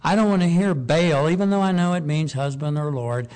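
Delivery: a preacher voicing God forbidding the word Baal; God's firm command. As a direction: lay down God's order with force. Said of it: "And God says".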